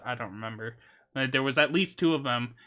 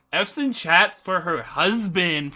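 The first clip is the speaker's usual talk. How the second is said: louder, higher call to chat; 4 semitones higher, 5 dB louder than usual. Real, not acted. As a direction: shout it out to the chat. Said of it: "says it again quieter".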